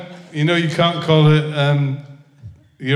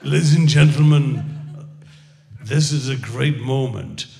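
American announcer. Retold or imitated. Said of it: "that American bloke who said".

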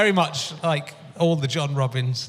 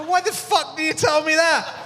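high, outraged theatrical diva voice, much higher; Elaine Stritch impression; 13 semitones higher than usual. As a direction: play an old Broadway diva, scandalised. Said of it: "she stood in the doorway going".

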